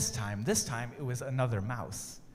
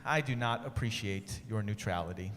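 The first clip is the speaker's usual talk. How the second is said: sighing; 5 semitones lower, 3 dB quieter than usual. Acted. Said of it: "Desmond sighed".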